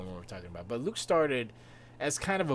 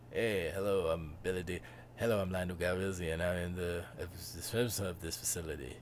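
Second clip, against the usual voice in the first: Billy Dee voice; 5 semitones lower than usual. Retold or imitated. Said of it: "Something like that, right?".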